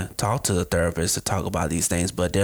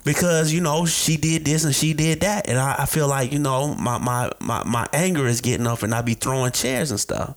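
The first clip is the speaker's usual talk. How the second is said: client venting, voice raised high; mock client; 4 semitones higher than usual. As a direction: complain like an angry client. Client answering in acted session.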